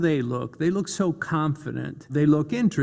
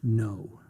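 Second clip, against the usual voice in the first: a low, firm NO; 4 semitones lower, 4 dB quieter than usual. Shown as a demonstration. Coach repeating the firm No with the class. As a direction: close it down with one word. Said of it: "let's do it again".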